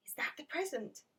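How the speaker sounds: put-on bright, lifted child's question; very excited. Alfie asking Maureen about the basket, excited. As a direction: ask it as if you can hardly wait. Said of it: "very excited".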